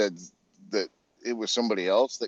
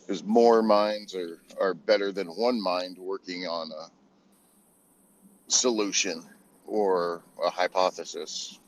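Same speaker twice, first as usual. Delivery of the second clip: glitchy robotic audio; choppy robotic connection. Real, not acted. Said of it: "You sound like a robot".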